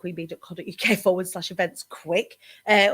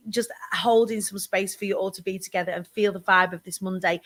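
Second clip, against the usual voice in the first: whispering; 2 semitones lower than usual. Real, not acted. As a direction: whisper it, calm and close. Holding space for the community.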